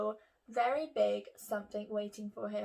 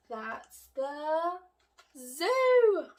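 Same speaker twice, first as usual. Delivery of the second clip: high, loud reveal of zoo; much higher, louder zoo; excited reveal; 4 semitones higher, 6 dB louder, much slower than usual. Acted. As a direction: build to the big reveal.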